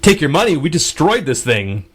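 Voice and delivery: a retold friend insisting he can't take her money back. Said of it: "he was like".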